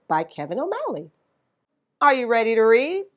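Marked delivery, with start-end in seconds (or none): 2.0-3.1 fast, loud eager question; rally the class to read; quick cheerful call to start; excited rally. Acted. Teacher rallying listeners.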